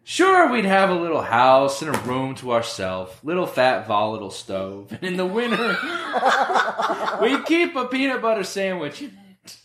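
laughing. Acted. Reading George's lines, laughing.

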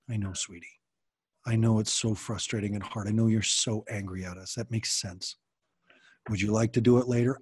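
put-on calm her down gently, like to a baby; soothing parent. Shown as a demonstration. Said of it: "low tone of voice and being really soft".

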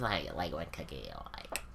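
soft-spoken Valley Girl imitation; basic white girl voice. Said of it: "That was just basic white girl voice".

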